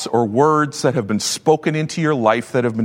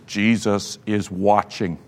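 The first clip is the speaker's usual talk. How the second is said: eerie parrot voice; 5 semitones lower, 5 dB quieter, slower than usual. Acted. Parrot repeats in dark.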